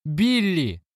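mother screaming her son's name; shouting his name. A narrator's reading. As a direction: call him off in a high cry. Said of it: "кричала она".

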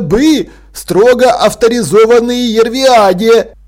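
put-on high, slow boy with a blocked nose; loud, drawn-out, bunged-up voice; stuffed-nose explanation. A narrator's reading. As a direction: explain it through a post-cry stuffy nose. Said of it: "пояснил Артур и звучно высморкался".

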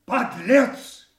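high, loud, slow enraged cries; raging insults. Acted. King hurls insults at Kent, raging and shrill. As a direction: spit the words at a traitor.

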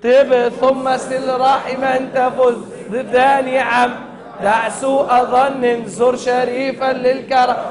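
chanted teaching recital of a poem line; measured chant for a class to echo; verse recitation. Shown as a demonstration. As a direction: recite it as a model for pupils.

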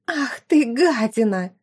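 sharp rising outburst; enraged cry; furious insult. Acted. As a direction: spit the insult.

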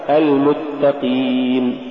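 المتقين with a clean ee after the Q; lighter qaf. Shown as a demonstration. Tajweed teacher giving the example, lighter qaf. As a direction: keep qeen clear in المتقين. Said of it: "والصواب".

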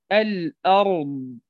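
"الأرض" slow with a thick r; heavy r. Shown as a demonstration. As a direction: draw out the emphatic r in "الأرض". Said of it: "فتفخم".

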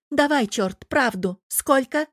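high loud demanding shout; angry demand. Acted. Girlfriend demanding the truth from the devil, loud and high. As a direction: demand the truth right now.

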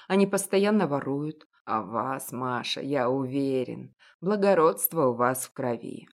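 put-on an elderly shopkeeper, knowing and gentle; a hint of a kindly old baker; old confectioner. Old confectioner offers home.

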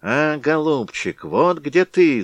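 high squeak, slow; high slow beak voice; squeaky bird beak. Acted. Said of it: "запищал птичий нос".

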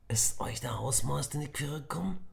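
eager, hurried questions; excited. Acted. Emir asks his friends eagerly, excited. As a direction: pulls Nick aside, bursting to know. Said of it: "fragte Emir aufgeregt".

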